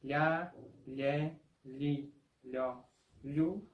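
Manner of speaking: "ye, li, lo, lu" with a palatal ly sound; the Portuguese lh glide. Shown as a demonstration. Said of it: "Este sonido de".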